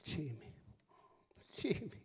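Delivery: rising to high, loud grandma scold; Italian grandmother. Retold or imitated. Dying grandma scolding her grandson's earring, growing loud. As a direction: start weak then scold him. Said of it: "She said".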